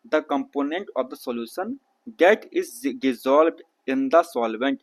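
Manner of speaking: slow, careful textbook read-aloud. Shown as a demonstration. Teacher reads the textbook to his students, slow read-aloud. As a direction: spell out each word slowly for the class.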